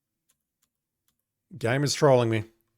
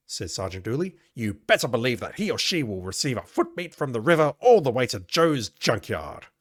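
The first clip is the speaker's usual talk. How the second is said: a touch louder, irritated police sergeant; lightly voiced fed-up sergeant; angry sergeant; 3 dB louder than usual. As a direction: grumble out the sergeant's threats. Reads Dooley's game text aloud.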